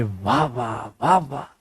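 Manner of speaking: mock applause under the breath; sarcastic wah. Sarcastic praise. (धीमी व्यंग्य भरी वाह-वाह)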